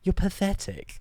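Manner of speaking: sarcastic retort, rising to a sneer; sarcastic comeback. Retold or imitated. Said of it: "I was like".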